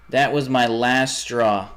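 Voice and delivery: slow, each word spelled out; slow deliberate repeat. Real, not acted. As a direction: drag the words out, fed up. Repeats line, slowed right down.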